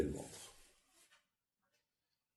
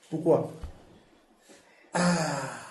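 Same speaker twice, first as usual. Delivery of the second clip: exclamation imitée; 5 semitones higher, 6 dB louder, much slower than usual. Retold or imitated. Imite l'exclamation de sa femme.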